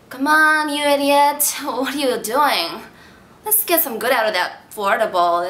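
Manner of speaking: lightly voiced drunk egging on the writer; Emily the drunk. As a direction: goad your other self. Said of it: "So the drunk, Emily, tells the writer".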